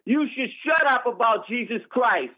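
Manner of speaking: angry, forceful rebuke; real, heated reproach; yelling. Real, not acted. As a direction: order them to be silent. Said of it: "You yelling again".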